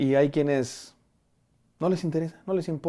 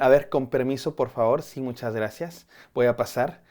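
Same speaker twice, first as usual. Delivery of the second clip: overly polite. Retold or imitated. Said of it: "se vuelven muy amables cuando están enojadas".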